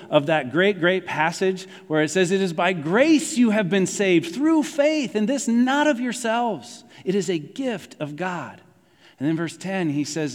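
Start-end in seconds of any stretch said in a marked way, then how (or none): 2.3-8.6 higher-pitched, slow, deliberate recitation; slow, lifted preacher's recitation; emphatic scripture reading. Acted. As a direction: proclaim the verse slowly, stressing key words.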